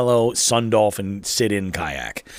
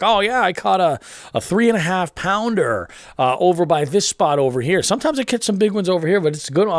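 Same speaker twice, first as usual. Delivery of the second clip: higher, chatty voice of a proud local angler; boastful kayak guy; 8 semitones higher than usual. Retold or imitated. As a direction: brag about the big catch like the goofy guy.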